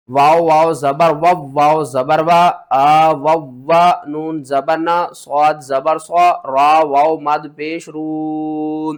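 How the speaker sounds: slow, loud spelled-out syllables; syllable drill. Shown as a demonstration. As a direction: sound out each letter slowly for pupils. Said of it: "teacher spelling out syllables".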